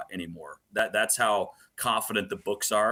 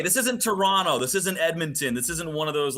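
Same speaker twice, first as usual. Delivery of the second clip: rallying cry; 6 semitones higher than usual. Real, not acted. Host hyping Utah fans against gloomy Canadian markets, rallying cry. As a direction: fire up the fans like a pep rally.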